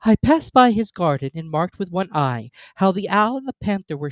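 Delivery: trembling recital. A narrator's reading. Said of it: "in a trembling voice".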